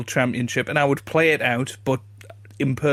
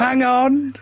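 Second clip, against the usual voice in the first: high, loud shout; shouted impression; 11 semitones higher, 5 dB louder than usual. Still in the Virgo impression, high loud shout. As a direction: bark it out in the Virgo voice. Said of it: "shouting down the mic".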